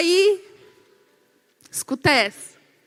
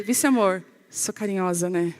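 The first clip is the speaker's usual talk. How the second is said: cooing reminder; 6 semitones lower, 4 dB quieter than usual. Retold or imitated. Lembra o marido, baixinho e meiga.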